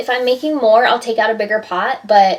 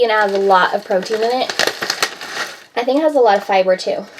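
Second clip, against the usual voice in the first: talking while out of breath; short of breath between words; faster than usual. Real, not acted. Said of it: "Sorry, I'm so out of breath".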